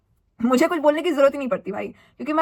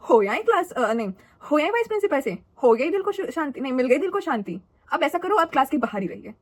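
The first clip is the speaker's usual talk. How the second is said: mock taunting teacher; 3 semitones higher than usual. Teacher taunting the girl back from the vice principal, sneering.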